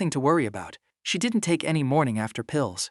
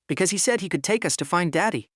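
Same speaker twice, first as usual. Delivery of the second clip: put-on bright little girl; 4 semitones higher than usual. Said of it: "smiled brightly".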